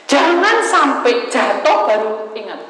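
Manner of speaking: loud, high, slow warning; preaching. Real, not acted. Preacher warning the congregation at full force.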